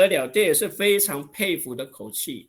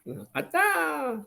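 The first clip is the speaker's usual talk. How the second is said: very high, very slow teasing drawl; mock someone who loves to show off; 13 semitones higher, much slower than usual. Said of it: "很爱现".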